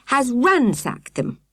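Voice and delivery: high, slow, breathless distress; woman reports the ransacked tents breathlessly; breathless alarm. A narrator's reading. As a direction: gasp it out, upset. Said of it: "she added breathlessly".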